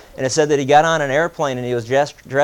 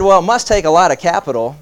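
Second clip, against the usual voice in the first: skeptical; 4 semitones higher, 5 dB louder than usual. Retold or imitated. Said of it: "he asked kinda skeptically".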